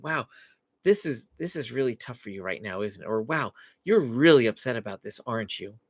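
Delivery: mean every word, gently; genuinely empathetic. Shown as a demonstration. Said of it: "And genuinely meaning that".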